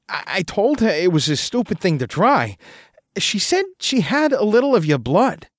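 a light hint of a stammering, anxious friend; nervous roommate. Roommate confesses to narrator about the blood, nervously. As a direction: stumble through the confession, worried.

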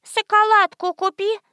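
put-on high little child's voice; little girl begging her grandmother; lisping child. A narrator's reading. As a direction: ask grandma like a small kid. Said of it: "прошепелявил кто-то".

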